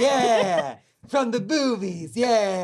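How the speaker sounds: lightly voiced film star; Jack Nicholson. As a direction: confirm it like a movie star. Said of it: "this is Jack".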